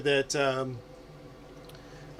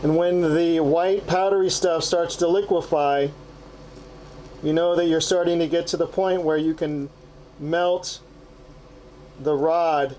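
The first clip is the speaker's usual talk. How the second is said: muffled. Real, not acted. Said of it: "I apologize if the sound is a little muffled".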